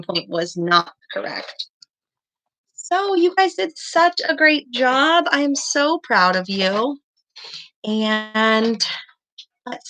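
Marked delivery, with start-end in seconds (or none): 2.7-7.0 excited praise. Real, not acted. Teacher praising second graders.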